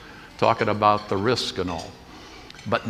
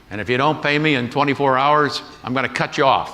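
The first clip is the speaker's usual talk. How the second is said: threatening; 4 semitones higher, 5 dB louder than usual. Retold or imitated. Creditor threatening to cut off.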